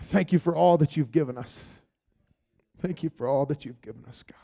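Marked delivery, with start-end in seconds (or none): 2.8-4.4 whispered thanks, much softer; whispered prayer. Real, not acted. Prayer line repeated.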